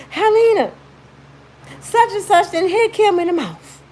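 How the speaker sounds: high, loud alarmed call for her sister; panicked shout for help; urgent call. Retold or imitated. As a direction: yell it like you're running in the house. Running in, calling sister urgently.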